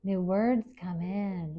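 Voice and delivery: slow, savoring each word; teacher echoing a student's haiku line slowly. Shown as a demonstration. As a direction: repeat it back slowly, letting it land. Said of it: "teacher echoes it slowly".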